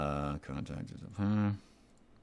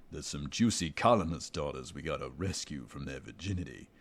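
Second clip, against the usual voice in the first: lightly voiced crude marine; 4 semitones lower than usual. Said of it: "the guy goes".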